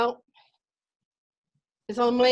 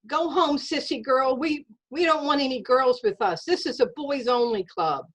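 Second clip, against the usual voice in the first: put-on boy yelling taunt; 6 semitones higher than usual. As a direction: yell it back at the little girl with scorn. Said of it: "yelled back at me".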